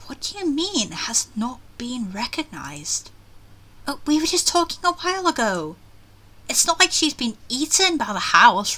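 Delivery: acted uneasy inner monologue; expressive read with rising doubt; worried game heroine. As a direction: think aloud as a puzzled heroine. Reads heroine's uneasy thoughts aloud.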